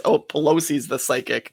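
ordinary delivery

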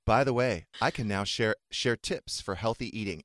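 mock Alexa voice. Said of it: "And she's like".

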